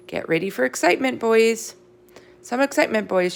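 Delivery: high, bright, fast teacher announcement; excited teacher. Acted. Missus Brisbane teasing the class with a surprise, high and excited. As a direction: tease the class about what's coming.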